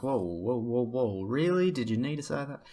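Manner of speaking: mock taken aback. Vlogger imitating mates reacting to shocking jokes, mock disbelief. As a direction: react like a mate told a shocking joke. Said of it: "they'll react and like".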